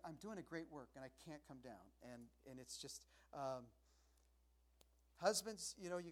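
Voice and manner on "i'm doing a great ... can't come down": soft, lowered affirmation; quiet resolve. Retold or imitated. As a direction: speak it to yourself gently. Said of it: "I was doing".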